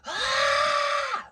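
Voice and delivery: loud high sustained scream, imitated; bloody-murder scream. Sleepwalking child at the bedroom door, imitated bloody-murder scream. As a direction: shriek one long, piercing note in imitation. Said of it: "scream bloody fucking murder".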